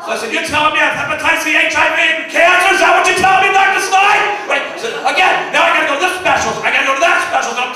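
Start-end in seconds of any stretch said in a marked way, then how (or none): 0.3-4.2 rising disbelief, shouting at the doctor; incredulous shout. Retold or imitated. Patient shouting at his doctor in disbelief. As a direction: blow up in outrage at the news.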